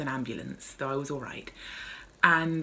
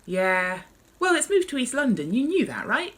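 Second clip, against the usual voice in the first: paramedic gossip; 8 semitones higher, 4 dB louder than usual. Acted. Paramedic replies about bars.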